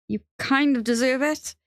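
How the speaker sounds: high, rising disbelief; incredulous echo. Acted. Benji repeating Theo's admission back to him, incredulous. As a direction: throw his words back as a challenge.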